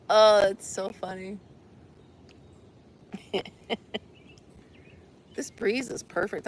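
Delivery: normal talking voice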